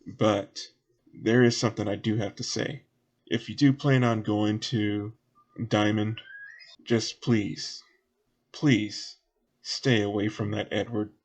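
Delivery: earnest warning, light Southern voice; lightly voiced local. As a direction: warn the travellers in a lightly folksy voice. Game master voices Southern character.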